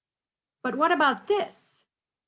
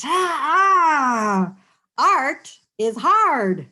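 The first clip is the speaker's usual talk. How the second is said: Sophia's loud, slow cry of despair, higher; frustrated wail; 3 semitones higher, 8 dB louder, much slower than usual. Acted. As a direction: wail that art is hard, a crying shout. Sophia frustrated, reading aloud.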